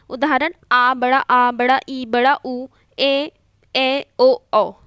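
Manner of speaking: आ, ई, ऊ, ए, ओ, औ drawn out as long vowels; long vowels demo. Shown as a demonstration. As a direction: say each long vowel आ ई ऊ stretched to two beats. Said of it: "दो मात्रा का समय लगता है". (दीर्घ स्वर खींचकर बोलना)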